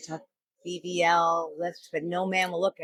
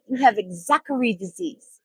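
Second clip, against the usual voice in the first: higher-pitched mock Asian accent; lightly caricatured Asian doctor accent; 6 semitones higher, 4 dB louder than usual. Doctor repeats diagnosis to baffled patient, mock Asian accent. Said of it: "little Asian man, you know".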